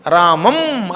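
రామం with the final ం hummed through the nose; nasal anusvara. Shown as a demonstration. Teacher showing the final sunna, రామం ending through the nose. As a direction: let the end of రామం resonate in the nose. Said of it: "ముక్కుతో పలకాలి దాన్ని".

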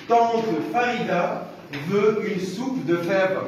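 measured dictation pace with clear gaps; slow careful reading. Shown as a demonstration. Teacher reads the passage to the class, slow careful reading. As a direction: read it out slowly, word by word. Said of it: "je vais vous lire ce passage-là".

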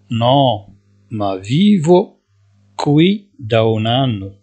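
each syllable drawn out, slowly; slow dictation. Shown as a demonstration. Teacher to Moroccan students, slowly dictating Italian. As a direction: spell it out slowly for learners. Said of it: "teacher dictating passenger line".

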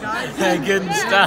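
slow words through a laugh. Real, not acted. Joking about Viagra, laughing confession. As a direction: laugh as you admit it.

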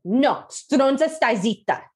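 put-on a four-year-old mouthing off at his nanny at bedtime; bratty kid. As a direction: sass the nanny like a spoilt toddler. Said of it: "a four-year-old that just said".

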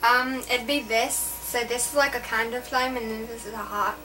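light Australian accent. Real, not acted. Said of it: "Wait, I'm still doing the accent".

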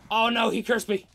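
high, loud alarm, rising as it goes; panicked shouting. Real, not acted. Cursed in game, calls for help.

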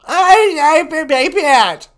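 put-on hard-of-hearing old woman; old lady voice. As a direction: croak like a deaf granny. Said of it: "She's really old and nasty".

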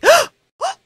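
high, loud and slow, laughing through it; giddy realization. Retold or imitated. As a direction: squeal with delighted disbelief. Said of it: "That's my interpretation of her reactions".

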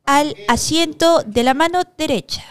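slow, measured announcer call; deliberate public-address delivery; mock official summons. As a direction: call a contestant up formally, word by word.

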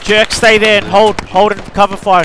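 loud, firm order over the gunfire; commanding shout. Real, not acted. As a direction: bark the order to hold. Ordering a teammate under fire.

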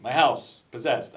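imitated New York cop; lightly hammed New York accent. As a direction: play a New York cop explaining himself. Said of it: "I shouldn't do a New York accent".

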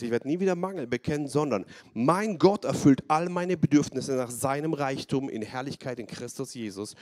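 firm, emphatic declaration of faith; faith proclamation. Shown as a demonstration. Preacher showing the congregation a bold faith proclamation. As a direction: proclaim it boldly to yourself. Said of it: "wo du eine Proklamation des Glaubens machst".

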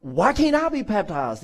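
eager, slow and drawn-out plea; excited. Acted. New believer asks Philip for baptism, excited. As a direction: play the thrilled new convert, stretching the words. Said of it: "he is so excited".

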